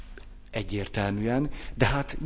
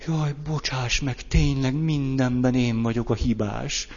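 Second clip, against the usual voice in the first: defensive apology; 3 semitones higher than usual. Retold or imitated. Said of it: "Vagy elkezdek védekezni".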